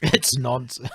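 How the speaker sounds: line breaking into a laugh; trying not to laugh. Real, not acted. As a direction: dismiss it while holding back giggles. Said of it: "I'll try not to laugh while I'm saying that".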